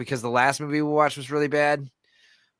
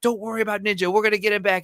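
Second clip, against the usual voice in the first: pitched-up comforting movie voice; mock reassurance; 8 semitones higher, faster than usual. Comedian replaying a movie reassurance, high and goofy. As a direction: soothe him in a high, goofy voice. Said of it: "Ari Spears is crying".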